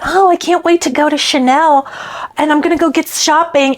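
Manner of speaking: lightly voiced airy rich mom, carefree; a hint of a breezy, self-absorbed shopper; mocking the influencer mom. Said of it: "she was going".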